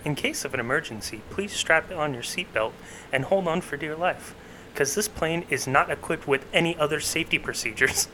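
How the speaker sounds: lightly voiced airline safety announcement; a hint of a flight attendant, slowed. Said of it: "you wanna announce to the fucking airline flyers the safety procedures".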